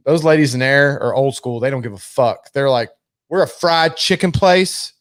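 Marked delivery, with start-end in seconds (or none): 3.3-4.9 mock blunt clerk. Quoting blunt ladies.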